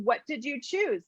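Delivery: soft, slow "What did you choose?" with a falling end; soft, unhurried acknowledgement; gentle acknowledging question. Shown as a demonstration. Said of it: "always acknowledging".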